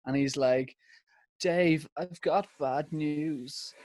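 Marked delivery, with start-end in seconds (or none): 1.4-3.7 slow, drawn-out mock near-tears delivery; Louis Walsh. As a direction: lightly imitate someone solemnly breaking bad news. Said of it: "he looks like he's gonna cry".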